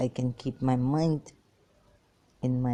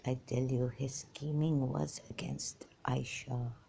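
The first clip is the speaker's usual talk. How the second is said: whisper; 3 semitones lower, 7 dB quieter than usual. Real, not acted. Aside while recounting the scandal.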